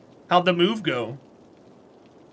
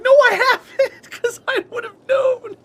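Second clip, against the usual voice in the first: squeaky laughing denial, much higher; laughing protest; 6 dB louder than usual. Retold or imitated. Retelling her denial to Pixie, squeaking with laughter. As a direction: protest while cracking up. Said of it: "I'm like".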